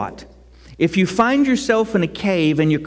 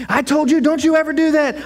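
mock scolding; 8 semitones higher than usual. Parent scolding a child.

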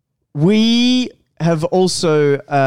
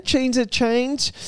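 dramatic; 9 semitones higher, 4 dB quieter, much slower than usual. Pretend. Repeated dramatic announcement.

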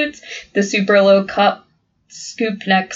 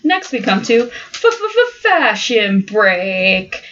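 segment announcer; much slower than usual. Acted.

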